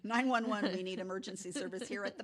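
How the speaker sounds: laughing through a jokey emergency call; loud, laughing mock call for help; mock 911 call. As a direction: fake a frantic call while laughing.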